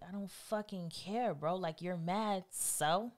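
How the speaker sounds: slow, soft, unbothered; quiet, drawn-out indifference; dismissive attitude. Acted. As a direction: toss it off as if it's nothing. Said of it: "that attitude aspect of me".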